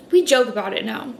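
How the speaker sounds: sigh, then tearful and choked; fighting tears through the words; teary restart. Real, not acted. Breaks down retelling childhood.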